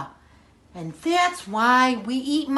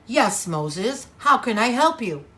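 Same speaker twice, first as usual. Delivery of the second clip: a lower kingly voice; lower-voiced Pharaoh greeting Moses; 5 semitones lower than usual. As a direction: answer as the Egyptian king, lower than your own voice. Storyteller voices Pharaoh answering Moses.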